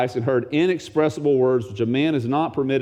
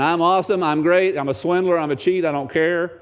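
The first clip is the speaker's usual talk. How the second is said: lightly mocking, a touch higher, bragging; boastful Jacob; 4 semitones higher than usual. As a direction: brag like a smug swindler, lightly voiced. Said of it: "He's constantly saying".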